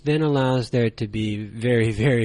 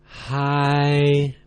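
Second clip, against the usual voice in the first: held high and level, no slide; 2 semitones higher, 3 dB louder than usual. Shown as a demonstration. Teacher showing learners the first tone, held high and flat. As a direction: sing "high," on one flat high note. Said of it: "Now you try it".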